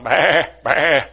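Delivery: imitated bleats at ordinary pitch; casual flock baas; chattering sheep. Other sheep talking among themselves, bleating idly. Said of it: "all the other sheep were talking".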